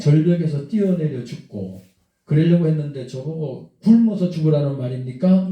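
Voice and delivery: mildly indignant retort, pressing each item; retold flare of anger. Man protesting to the pastor's wife, mildly angry. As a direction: replay an angry protest with moderate force. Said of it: "화를 펄컥 내는 순간에".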